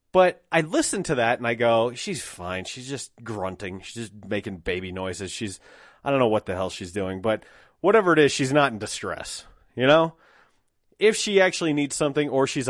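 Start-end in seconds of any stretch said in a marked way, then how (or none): 1.9-10.1 calm reassurance. Retold or imitated. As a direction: hush and reassure yourself she's fine. Calm self-reassurance about baby.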